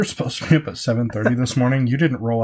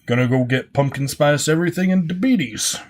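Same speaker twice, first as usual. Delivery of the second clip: teasing put-on voice, rising toward the end; playful mock impression; mocking imitation; 3 semitones higher than usual. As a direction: mimic a friend, lightly hammed-up. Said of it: "It's exactly how I talk".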